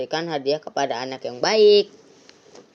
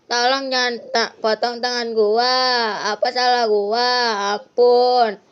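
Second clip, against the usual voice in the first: put-on higher, frightened pleading boy; begging; 8 semitones higher, 3 dB louder than usual. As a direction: plead for your hand. Boy begs not to be cut. (anak memohon ketakutan)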